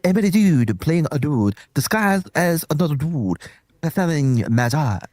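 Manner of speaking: a badly faked Chinese accent; hammy put-on Chinese accent; fake Chinese accent. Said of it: "a best Chinese accent".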